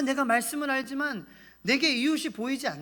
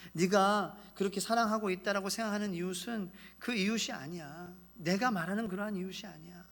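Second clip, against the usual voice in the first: gentle Jesus; 3 semitones lower, 8 dB quieter than usual. Acted.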